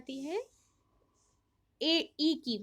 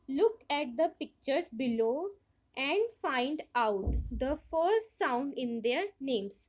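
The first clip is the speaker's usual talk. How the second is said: slow reading; much slower than usual. Acted. Reads book instructions aloud.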